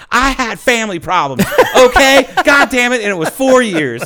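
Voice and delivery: loud, high-pitched mock outrage; hammed-up indignant shouting; indignant comeback. Retold indignant comeback from teased nurse.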